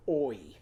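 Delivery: "Oi" said as a short, clear squeaky oi; a quick demo of "Oi"; oi sound. Shown as a demonstration. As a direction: voice the toy's squeak as "Oi". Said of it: "and go".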